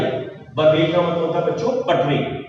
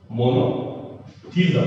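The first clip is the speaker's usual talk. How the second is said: मोनोथिज्म drawn out slowly and softer; slow dictation; 5 semitones lower, 3 dB quieter, much slower than usual. Shown as a demonstration. (मोनोथिज्म को धीरे-धीरे लिखवाते हुए)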